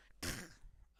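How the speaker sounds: short hairball hack; cat retching up a hairball; coughing up hairball. Pretend. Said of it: "It's a very effective hairball noise".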